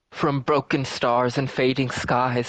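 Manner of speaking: slow, loud prophetic chant; otherworldly voice. Acted. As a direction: boom it out like a possessed seer. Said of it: "she shouts out in this otherworldly voice".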